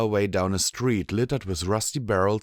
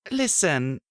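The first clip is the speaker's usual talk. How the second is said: Blackjack voice; 8 semitones higher than usual. A narrator's reading. Blackjack alert.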